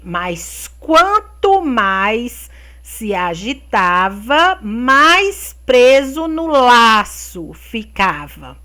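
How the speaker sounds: slow, drawn-out fable reading; reading to children. A narrator's reading. Teacher reading pupils the lion fable, slow and deliberate storytelling. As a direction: read it out slowly, stretching key words.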